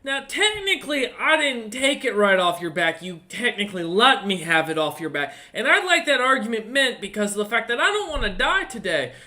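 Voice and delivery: high, quick yappy kobold voice; squeaky yappy lizard chatter. Acted. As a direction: yap it out like a cocky little kobold. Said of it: "the sounds of the kobold's voice go".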